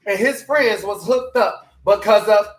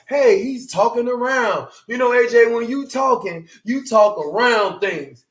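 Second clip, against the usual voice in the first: imitating critics; 3 semitones higher than usual. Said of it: "they automatically try to figure like".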